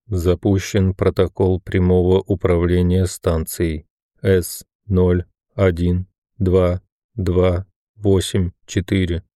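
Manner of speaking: lifeless machine announcement; mechanical lifeless voice. Acted. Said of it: "произнёс механический и какой-то неживой голос".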